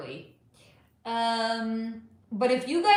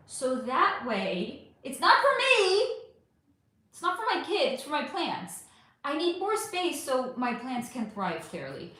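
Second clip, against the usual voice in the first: entitled. Real, not acted. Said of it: "That sounded so entitled".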